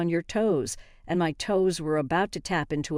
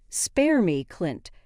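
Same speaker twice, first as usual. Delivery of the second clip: angry; slower than usual. Acted. Wife confronts cheating husband.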